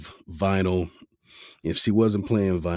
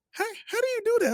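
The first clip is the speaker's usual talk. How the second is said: imitated amazement; much faster than usual. Cousins reacting to his falsetto.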